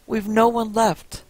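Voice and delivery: slow, lightly voiced old woman calling through a door; a hint of an old woman calling from inside. A narrator's reading. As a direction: call out slowly like a wary old woman. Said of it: "an old voice called out from inside".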